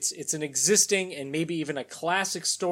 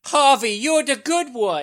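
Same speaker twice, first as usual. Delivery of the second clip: put-on baby voice; 7 semitones higher, 6 dB louder, slower than usual. Batman baby voice continued.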